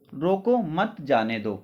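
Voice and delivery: slow रोको, break, then मत जाने दो; pause after रोको. Shown as a demonstration. Teacher repeating what he told students, pause after रोको. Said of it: "मैंने आपसे क्या बोला?".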